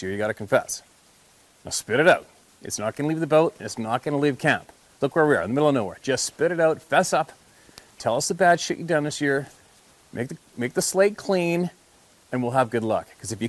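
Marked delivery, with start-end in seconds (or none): 1.6-11.7 teasing push. Retold or imitated. Ribbing clients to confess.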